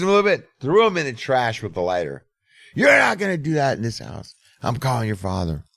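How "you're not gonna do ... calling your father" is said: angry mom. Retold or imitated. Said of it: "she's like".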